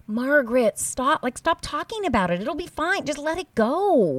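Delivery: exasperated plea to Margaret. Retold or imitated. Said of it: "It's like".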